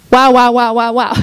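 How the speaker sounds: gushing, delighted wows trailing into a laugh; excited wows. Retold or imitated. Preacher reliving her delight at a scripture, gushing excited wows. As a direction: rave about it like a thrilled kid. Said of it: "I get so excited about that".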